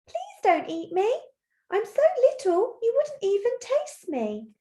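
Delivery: high-pitched timid plea; pleading little goat. Acted. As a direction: beg the troll in a small, high voice. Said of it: "He's really pleading with the troll".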